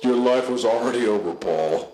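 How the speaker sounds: put-on mysterious Russian accent. The bullet capsule speaks to Paul in a mysterious Russian accent. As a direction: intone it like a sinister Russian villain. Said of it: "in a mysterious Russian accent".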